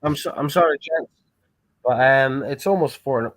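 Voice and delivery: tipsy, slightly slurred speech. Real, not acted. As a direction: talk like you've had a few drinks. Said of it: "watch me getting drunker and drunker".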